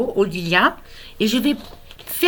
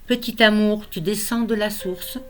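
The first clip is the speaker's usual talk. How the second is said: measured, tender poem recital with pauses between lines; poem reading. Acted. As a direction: read your own poem to a newborn, phrase by phrase. Recites own poem to grandson.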